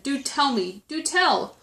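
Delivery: high, urgent appeal; crying out. A narrator's reading. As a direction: beg eagerly for news. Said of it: "cried the elephant".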